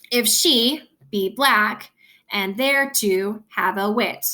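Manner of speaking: "if she be black" in measured pairs; iambic stress. Shown as a demonstration. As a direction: lean on "she", "black" and "wit". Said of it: "that's emphasized".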